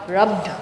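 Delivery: rubbed ending in a voiced D. Shown as a demonstration. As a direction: say rubbed as "rubd", voicing the end.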